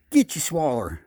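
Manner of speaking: loud call to the fish; catchphrase call; bait call. Pretend. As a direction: holler it out over the lake.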